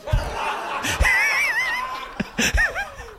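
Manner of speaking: a big high whooping laugh. Real, not acted. Big laugh at own joke.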